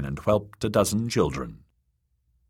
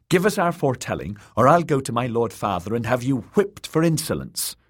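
put-on haughty girl; 4 semitones higher, faster than usual. Spoiled girl threatens the witch.

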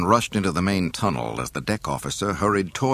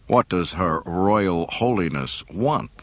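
disdain; slower than usual. Acted. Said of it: "the disdain in Han's voice".

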